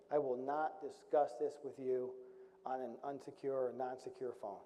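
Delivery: slow, deliberate officer's refusal; stern refusal. Retold or imitated. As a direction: retell a colonel stonewalling, word by word. Retold colonel stiffly refusing to answer.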